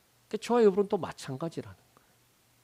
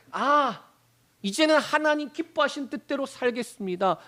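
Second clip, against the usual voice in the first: raised, high-pitched prayer pledge; fervent mock vow; 7 semitones higher than usual. Believer vowing to God during prayer, acted fervor.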